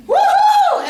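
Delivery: high, loud, laughing whoop; a wild celebratory woohoo; party whoop. Pretend. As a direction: cheer like you're at Pride Week. Imagined party cheer at Pride.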